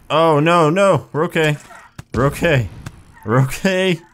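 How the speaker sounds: high, urgent repeated reassurance; panicked reassurance. Real, not acted. Player wobbling in game, panicked self-reassurance. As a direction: insist high-pitched that it's fine, barely holding on.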